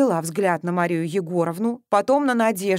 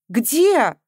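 tragic notes; 6 semitones higher, 7 dB louder than usual. A narrator's reading. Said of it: "трагические нотки".

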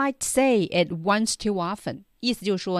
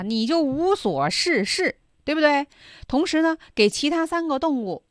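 raised, louder reproach; scolding djinn; 6 semitones higher, 5 dB louder than usual. Acted. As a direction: scold the idle camel.

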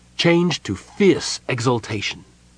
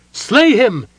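loud, high furious command; cried out; 12 semitones higher, 6 dB louder than usual. Acted. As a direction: urge them to kill, loudly. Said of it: "Mina cried".

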